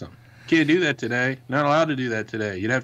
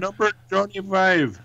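robot voice; 8 semitones higher, slower than usual. Retold or imitated. Quoting the Short Circuit robot.

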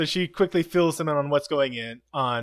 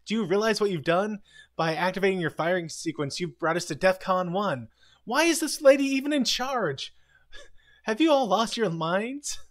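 pitched-up outraged tirade; lightly hammed admiral rant; higher mock admiral scolding; 4 semitones higher than usual. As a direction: play the indignant admiral telling them off. Admiral scolding over phone.

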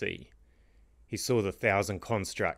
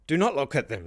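loud, higher angry shout; 7 semitones higher, 4 dB louder than usual. A narrator's reading. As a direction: bark the order in fury. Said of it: "shouted the king".

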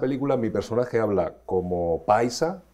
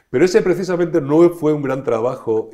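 ese hit hard, louder and higher, then falling; louder emphatic repeat; 7 semitones higher, 10 dB louder than usual. Real, not acted. Actor repeating to interviewer that this role was weak: louder emphatic ese.

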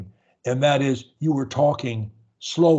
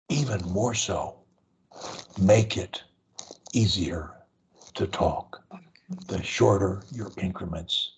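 low voice in small slow chunks; short increments; 6 semitones lower than usual. Shown as a demonstration. Coach modelling easy speech for a stutterer, short slow phrases. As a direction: pause after every few words. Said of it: "as I am doing now".

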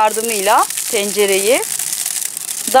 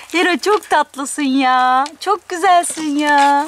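slow, doting coo; adoring pet talk; 3 semitones higher, slower than usual. Real, not acted. Owner praising Hera as sweet, slow fond cooing. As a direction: draw it out fondly.

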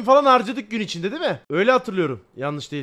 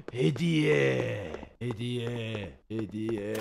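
lower, softer, drawn-out hediye; mock dramatic; 10 semitones lower, 7 dB quieter, much slower than usual. Streamer reacting to gift, mock spooky. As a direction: intone it like a spooky chant.

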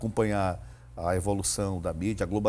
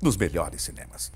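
slow, dramatic cinema announcer; movie trailer voice. Shown as a demonstration. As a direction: build suspense like a trailer. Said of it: "Posso fazer uma voz de cinema?".

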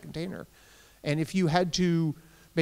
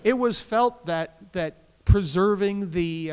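sweetly passive aggressive, higher and louder, slow with a laugh; 4 semitones higher, 6 dB louder, slower than usual. Shown as a demonstration. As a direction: lay on the sugary passive aggression. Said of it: "Is that the passive aggressive voice?".

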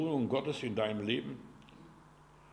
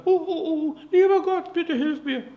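much higher, loud, terrified pleading; panicked plea; 8 dB louder than usual. Pretend. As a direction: cry out to God in pure panic. Panicked prayer as comet nears. (hochgespielte Todesangst, schreiend)

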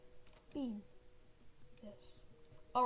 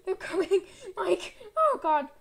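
raised, loud alarm; panicked warning; 6 semitones higher, 10 dB louder than usual. Pretend. Player warns teammate that they're coming, panicked. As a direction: call out in a panic.

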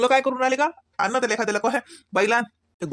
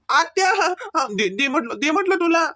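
yelling demand; 9 semitones higher, slower than usual. Real, not acted. Child yelling to get watch back.

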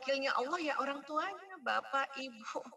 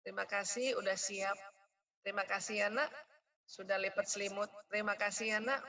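lower, gentle thankful voice; grateful praise; 3 semitones lower than usual. Shown as a demonstration. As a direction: thank the child warmly. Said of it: "Kenapa sih nggak bilang".

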